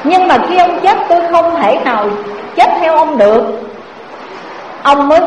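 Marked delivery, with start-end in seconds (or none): 0.0-3.4 wife's blunt refusal. Acted. Second wife refuses husband.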